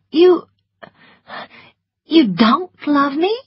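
high, halting disbelief; stunned. A narrator's reading. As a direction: stammer it out, taken aback. Stunned at being told unloved.

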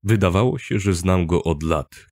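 ordinary delivery

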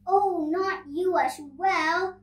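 loud, high storybook protest; exasperated shout. A narrator's reading. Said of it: "shouts Nora".

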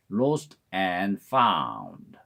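lost and found said very slowly, each word separate; very slow, careful lost and found; slow spelled-out. Shown as a demonstration. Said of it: "빨리 하면 lost and found로 들립니다".

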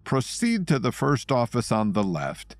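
polite menace, unhurried and cultured; calm cultured kidnapper. Acted. Three Teeth voice held.

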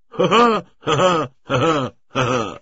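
loud, high acted guffaws dying down; hearty laugh easing off; roaring laughter. A narrator's reading. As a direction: laugh long at your own punchline. Cossacks roar at the joke.

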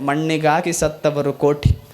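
measured recited verse; solemn devotional recitation; vachana recital. Acted. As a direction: intone the saint's verse. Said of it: "ಗುಹೇಶ್ವರ್ ಅಂತಾರೆ".

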